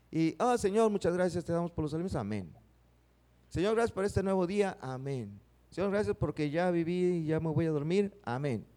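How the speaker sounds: rushed, careless throwaway prayers; a mock hasty mealtime grace; rote prayer. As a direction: rattle off a prayer just to be done. Mocks quick routine prayers.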